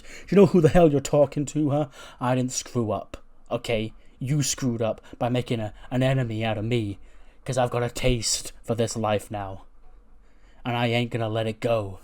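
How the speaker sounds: a nice guy turning nasty, daring him; menacing heel threat. Retold or imitated. Wesley turns heel, threatens Knight.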